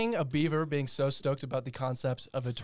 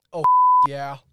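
breaks into a high laugh; cracking up mid-word; 13 dB louder than usual. Real, not acted. Cracks up after his tweet.

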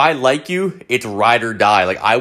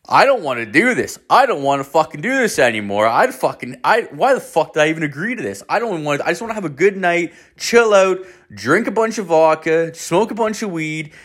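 higher-pitched, swooping protest, re-enacted; retold panic; 6 semitones higher than usual. Teller replaying his own dread before meeting them, mock panic. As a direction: act out a panicky inner whine. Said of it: "the panic sets in".

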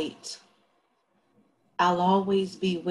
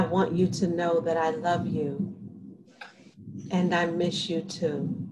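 ghost-like voice. Acted. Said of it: "Paula's voice is ghost-like".

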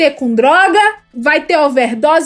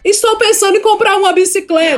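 higher, mock-formal small talk; stiffly polite husband; 5 semitones higher than usual. British husband chatting to his mistress, stiffly formal. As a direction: deliver it with absurd British reserve. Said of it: "Ele vai falar com a amante assim".

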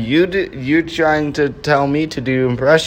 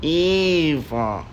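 EVE robot voice; 5 dB quieter than usual. Acted. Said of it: "That's Wally and Eva".

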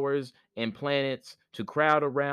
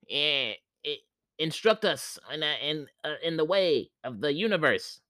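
higher, hesitant spirit voice; a humble planet asking, higher pitch; Earth spirit voice; 4 semitones higher than usual. Acted. Earth planet speaks to sun.

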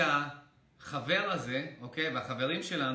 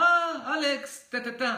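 high, loud delighted greeting; surprised friend; 9 semitones higher, 7 dB louder, slower than usual. Retold or imitated. Speaker voicing his friend hailing him on the street, high excited call. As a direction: burst out as if spotting an old friend.

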